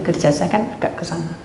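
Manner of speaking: usual speaking voice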